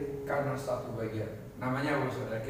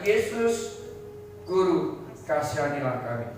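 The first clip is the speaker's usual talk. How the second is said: crying out; 2 semitones higher than usual. Acted. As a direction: call out to the Master for mercy. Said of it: "Dan berteriak".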